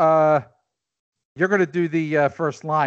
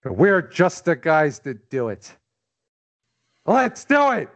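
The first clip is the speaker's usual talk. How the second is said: rallying line; slower than usual. Acted. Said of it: "famous speech".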